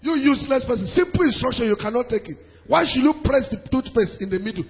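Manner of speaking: mild mock scolding, pitched a little up; acted quarrel. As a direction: berate a spouse, half in earnest. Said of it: "they were fighting".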